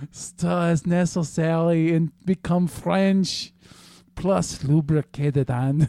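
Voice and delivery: slow, mock-seductive recipe read; sexier voice. Reading recipe steps on request, mock-sexy. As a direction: stretch the words in a put-on sultry voice. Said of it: "In a sexier voice".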